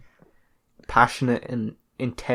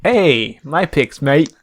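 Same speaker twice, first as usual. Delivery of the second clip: indignant; 3 semitones higher, 8 dB louder, much slower than usual. Real, not acted. Friend skipped his picks.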